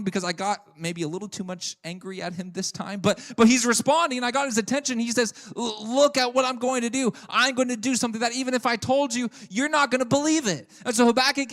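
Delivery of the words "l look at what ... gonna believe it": higher, louder, booming proclamation; excited announcement. Acted. God telling Habakkuk to watch, excited and booming. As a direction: announce it like news that will blow his mind.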